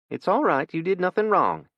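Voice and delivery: gentle, soothing mother; reassuring. Acted. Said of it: "Savannah reassured him".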